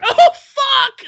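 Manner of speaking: high, loud laughing exclamation; bursting out laughing. Retold or imitated. Director cracking up around the corner. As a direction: explode into laughter. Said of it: "starts busting up laughing".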